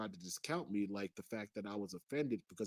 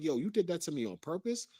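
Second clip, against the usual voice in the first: indignant, raised-pitch challenge; accusing question, pitched up; retold anger; 5 semitones higher than usual. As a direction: confront her, mildly heated. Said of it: "So I got pissed".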